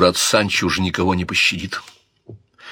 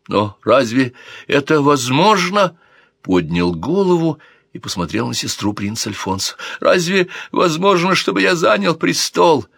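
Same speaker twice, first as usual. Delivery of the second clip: much higher, pitiful, pleading; 7 semitones higher than usual. Acted. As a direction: wonder at it like a weak drunk. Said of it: "Голос его был жалким".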